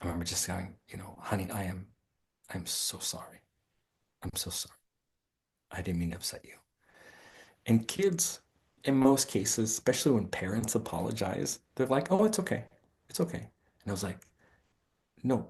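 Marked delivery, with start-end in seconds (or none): 1.2-6.5 acted, sincere, earnest tone. Retelling going upstairs to apologize to his child, retelling a genuine apology. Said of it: "as genuine as I could be".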